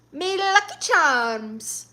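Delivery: high, slow mock Irish catchphrase; badly faked Irish accent; terrible Irish accent. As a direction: stretch it out in hammed-up bad Irish. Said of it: "It's a terrible Irish accent".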